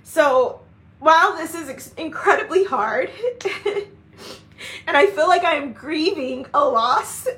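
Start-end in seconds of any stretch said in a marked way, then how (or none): 3.1-3.8 short high laugh through tears; teary laugh. Real, not acted. Grieving a loss yet laughing through the tears. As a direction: laugh it off while still crying.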